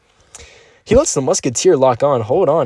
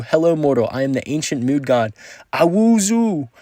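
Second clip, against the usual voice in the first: hammed-up deity greeting a mortal, rising higher on the name; mock ancient god; 5 semitones higher than usual. Reading a donor's message aloud as an ancient mood god. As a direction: proclaim it like a pompous old god. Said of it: "I tried my best to give my emphasis".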